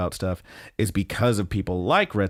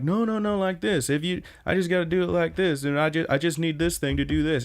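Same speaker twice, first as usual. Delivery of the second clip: whiny high coworker; 7 semitones higher than usual. Retold or imitated. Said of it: "the other guy's like".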